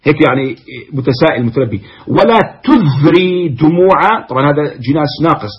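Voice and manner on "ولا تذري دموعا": ولا تذري دموعا drawn out slowly, ولا stretched and rising; slow recited half-line; slow verse recital. Shown as a demonstration. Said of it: "تدري وتذري".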